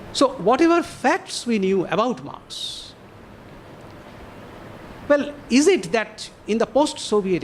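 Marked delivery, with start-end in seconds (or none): 0.1-2.9 "facts" given deliberate emphasis; stress on facts. Real, not acted. Lecturer repeating the question after flagging a key word, emphatic "facts". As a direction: make "facts" stand out in the phrase. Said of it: "I emphasize the word facts".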